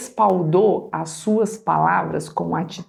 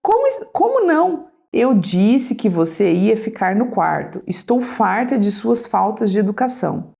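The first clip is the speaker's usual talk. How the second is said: tense mother; 2 semitones higher than usual. Acted. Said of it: "A mãe, tensa".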